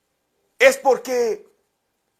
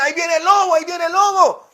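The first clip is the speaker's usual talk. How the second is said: put-on boy crying wolf; 6 semitones higher, 3 dB louder, faster than usual. Boy's prank cry again.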